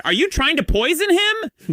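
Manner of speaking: high, slow shocked shout; shouted accusation. Retold or imitated. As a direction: accuse them at full pitch. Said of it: "She shouted".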